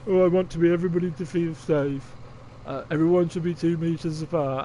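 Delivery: even-pitched imitation of a scripted ad; robotic script reader. Mocking a Spotify virus advert, robotic script reader. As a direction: recite it like a robot reading copy. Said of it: "You're a robot speaking a script".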